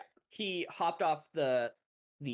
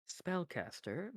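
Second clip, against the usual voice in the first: softer, drawn-out confidential aside; mock whisper; 3 semitones higher, 5 dB quieter, much slower than usual. Non-player character confiding to the party, hushed aside. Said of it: "he kind of leans in and whispers".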